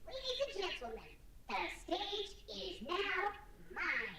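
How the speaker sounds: high, squeaky chipmunk voice. Toy Bonnie speaks in the game, in a chipmunk-like voice. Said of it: "he does sound like Alvin and the Chipmunks".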